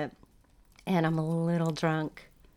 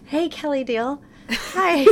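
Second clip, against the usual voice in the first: nervous fan greeting; 7 semitones higher, slower than usual. Retold or imitated.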